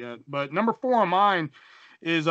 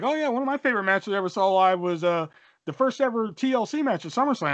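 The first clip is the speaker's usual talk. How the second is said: higher, quicker mock brag; casual bragging; 5 semitones higher than usual. Buddy boasting he saw match live, bragging. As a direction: imitate a buddy showing off his favorite match.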